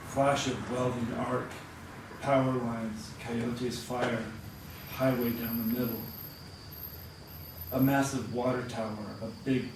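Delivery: unhurried recital with phrases settling downward; poem reading. Acted. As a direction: read it line by line, pausing after each image. Reads a poem aloud.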